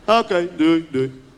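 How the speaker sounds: chuckled goodbye, dropping low; a light laughing bye. Retold or imitated. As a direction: hang up awkwardly through a laugh. Ending awkward call, laughing.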